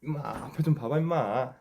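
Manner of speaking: high, loud coaxing pet voice; talking to a dog. Real, not acted. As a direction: bribe the dog with a treat.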